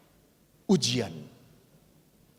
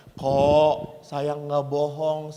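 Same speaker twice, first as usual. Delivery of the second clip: put-on old priest protesting; 4 semitones lower, much slower than usual. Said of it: "Lalu pastor itu berkata".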